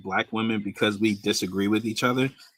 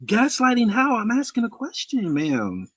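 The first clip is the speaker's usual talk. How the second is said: indignant surprise; 7 semitones higher than usual. Real, not acted. Man accused of gaslighting fires back at the woman in disbelief. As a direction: pitch jumps way up in disbelief.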